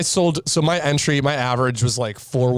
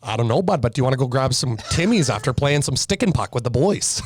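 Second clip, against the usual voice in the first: put-on Canadian accent. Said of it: "I can do a Canadian accent today".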